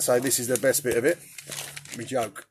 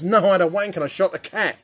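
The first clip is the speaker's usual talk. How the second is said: put-on raised-pitch kid answering back; child's punchline; 6 semitones higher, 4 dB louder, faster than usual. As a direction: deliver the punchline as the boy, higher. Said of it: "He goes".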